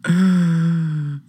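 long wheezy laugh trailing off. Real, not acted. Host cracking up at the clip, helpless laugh. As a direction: burst out laughing, then wheeze.

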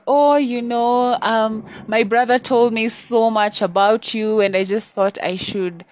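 high and loud, overly sweet; caller lady voice. Retold or imitated. Imitating the woman caller's sugary high explanation. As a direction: mimic her fake friendly pitch. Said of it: "And then she's like".

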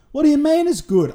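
high, incredulous "what do you mean"; can't believe she'd say that; outraged disbelief. Retold or imitated. Replying to girlfriend's praise of the ending, incredulous.

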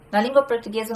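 ordinary talk

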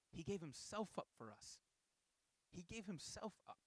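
soft, solemn and low; nearly a whisper, reverent; hushed solemn. Real, not acted. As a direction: drop to a hush on the sacrifice. Solemn climax on Jesus' sacrifice.

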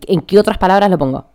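ordinary delivery

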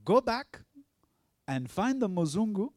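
high, loud divine command; commanding voice of Jesus. Retold or imitated. Jesus sends the pastor back, a high loud command. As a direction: call it out like a voice from heaven. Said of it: "Jesus tells me".

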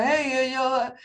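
mild mock yell, pitched high; imitated calling out. Surgeon calling to colleagues over the drapes, mock yelling. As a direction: call across the room, half-hearted. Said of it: "staat te brullen naar elkaar".

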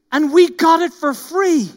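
high, loud petulant whine on and we got it for free; sulky whine rising on "we"; mock-grumbling crowd line; whiny complaint. Whining quote, then phrase repeated.

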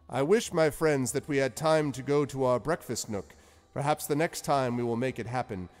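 high, loud, genial wizard voice; lilting, high wizard Zephyros; cheery old wizard. Acted. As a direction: play the jovial wizard host. Wizard voice again.

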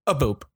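a little spoken boop; phone hang up click. Shown as a demonstration. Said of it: "That's my hang up noise".

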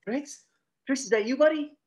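high, loud, hopeful hammed-up call to an old buddy; mock dazed Ozzy. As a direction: call out to a lost partner. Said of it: "he's like".

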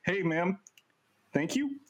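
high-pitched mock brush-off, drawn out at the end; hammed-up "move along" send-off; mock dismissal. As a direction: imitate politely shooing a lady away. Retelling Nick brushing off the lady.

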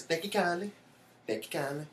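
imitating John Witherspoon thanking someone. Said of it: "how people do that voice".

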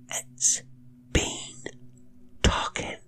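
frightened cook's hushed whisper. A narrator's reading. Cook to governess at the door, whispering. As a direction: whisper it, each word set apart. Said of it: "whispered the cook".

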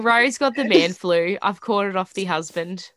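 sick, congested voice; man flu. Real, not acted. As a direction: talk through a head cold. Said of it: "I'm sick".

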